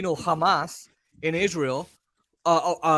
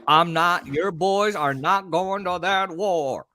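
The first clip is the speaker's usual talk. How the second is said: Roosevelt impression; slower than usual. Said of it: "That's how he talked".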